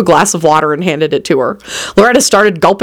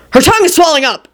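high-pitched announcement; announced loudly; 9 semitones higher than usual. A narrator's reading. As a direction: announce it to the room. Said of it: "Angel announced loudly".

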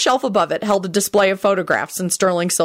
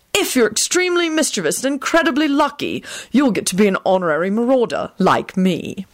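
smug; 5 semitones higher than usual. Acted. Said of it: "he added smugly".

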